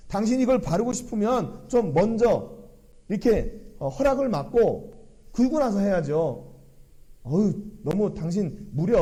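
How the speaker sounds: mock indignant telling-off; acted scolding. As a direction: play someone offended, scolding an intruder. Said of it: "이 여인을 책망할 때". (불쾌해서 따지듯 책망하는 흉내)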